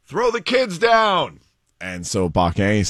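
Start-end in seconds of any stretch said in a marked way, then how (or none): 0.1-1.4 high, drawn-out urgent call; acted shout. Neighbor calling to parents trapped by fire, acted shout. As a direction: call up to a rooftop, stretching each word. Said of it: "Paquin just starts shouting".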